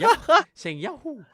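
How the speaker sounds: shouted high mock Italian accent. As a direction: belt it out, slow, as a bad Italian accent. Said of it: "doing a shitty Italian accent".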